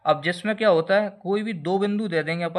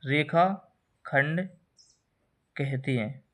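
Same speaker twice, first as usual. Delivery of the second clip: drawn-out term; 3 semitones lower, much slower than usual. Shown as a demonstration. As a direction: stretch रेखाखंड very slowly, syllable by syllable. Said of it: "न्यूनतम दूरी को रेखाखंड कहते हैं".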